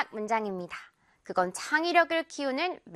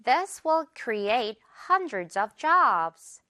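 This will create hundreds of jobs, word by word, very slowly; slow teaching read; very slow model; much slower than usual. Shown as a demonstration. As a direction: spell the sentence out slowly for learners. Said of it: "한 번 더".

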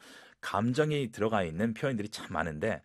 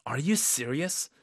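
slightly doubtful; 3 semitones higher, much slower than usual. Shown as a demonstration. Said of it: "약간 의심하는 톤으로".

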